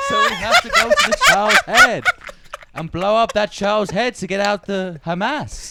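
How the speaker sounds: mock official justification. Mocking official war justifications.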